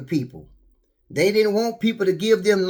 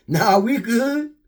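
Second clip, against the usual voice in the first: put-on curt young guy; 3 semitones higher, much slower than usual. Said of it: "You wanna ask me some questions".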